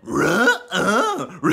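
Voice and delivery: high growly dog voice with a snickering laugh; cartoon dog refusing, then chuckling; Scooby-Doo impression. Scooby answers Shaggy, doggy refusal and snicker. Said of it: "Shaggy and Scooby-Doo".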